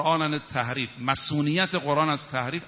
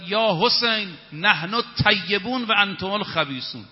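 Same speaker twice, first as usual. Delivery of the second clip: retold shout; 3 semitones higher than usual. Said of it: "فریاد زد".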